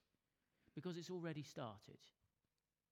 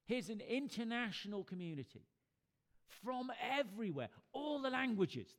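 raised, emphatic preacher's delivery; impassioned preaching; 4 semitones higher, 5 dB louder than usual. Real, not acted. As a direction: preach it out, building to a higher, louder peak. Preaches Revelation vision at force.

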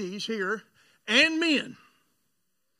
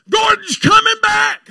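imitated mother's church shout, high and drawn out; loud, slow mock wail; calling out a name; 12 semitones higher, 12 dB louder, slower than usual. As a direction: holler it like a mother wailing for her son. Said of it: "She's calling your name".

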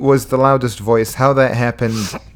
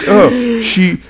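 mock critic; 4 semitones higher than usual. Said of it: "It's like".

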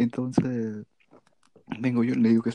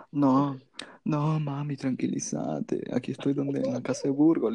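drawn-out, lightly tipsy reassurance; drunk voice; 3 semitones higher, 3 dB quieter, slower than usual. Retold or imitated. Tipsy son reassuring his worried mom from Burgos's house, mock drunk voice. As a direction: soothe mom with a mild drunken slowness. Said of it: "Pero con voz de bolo".

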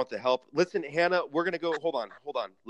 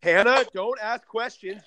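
stern; 8 semitones higher, 6 dB louder, slower than usual. Acted. Host snaps at caller.

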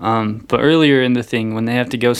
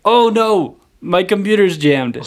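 high-pitched mock alarm; hammed-up helpless "oh no"; mock dismay; 6 semitones higher than usual. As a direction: imitate a hapless guard in feigned distress. Hapless guards' reaction acted out.

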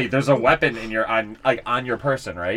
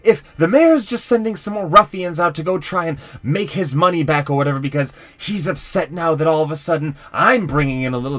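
louder, rising irritation; getting mad; 2 semitones higher, 3 dB louder than usual. Acted. Undertaker defending his earnings to the strangers, getting mad. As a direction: push back defensively, heated. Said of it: "he kinda starts to get a little mad now".

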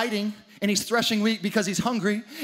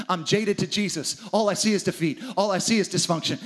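understated mopey complaint to God; defeated Gideon; 5 semitones lower than usual. Acted. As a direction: moan about being a loser. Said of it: "Gideon says to God".

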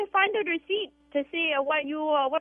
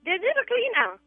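put-on Vietnamese accent; 6 semitones higher than usual. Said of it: "The Asian cleaners".

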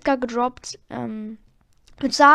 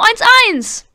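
whisper; 10 semitones higher, 9 dB louder than usual. Real, not acted. After scoring.

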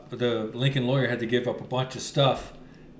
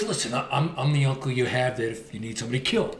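lightly raspy, whispery tough-guy voice; a hint of a rasp, like a shady fixer; Cisco impression. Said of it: "He kinda has that raspy, like, whispery voice".

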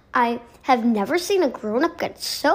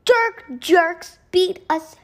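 moan; 9 semitones higher, 4 dB louder than usual. A narrator's reading. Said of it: "she moaned".

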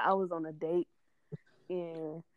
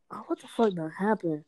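sarcastic. Retold or imitated. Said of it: "I was being real sarcastic".

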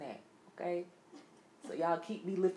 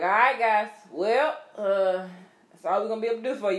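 mock corporate announcement; 4 semitones higher, 7 dB louder than usual.

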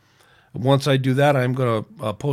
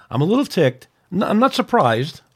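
mad; 5 semitones higher, 4 dB louder than usual. Real, not acted. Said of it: "I'm just mad".

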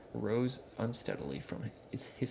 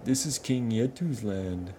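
gasping; 5 semitones higher, 8 dB louder, slower than usual. Acted. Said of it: "gasped the troll".

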